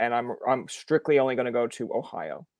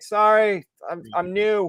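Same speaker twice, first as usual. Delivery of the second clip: higher-pitched, hammed-up apology; mock sheepish apology; 6 semitones higher, 4 dB louder, slower than usual. Newcomer apologizing to a New York heckler, mock sheepish.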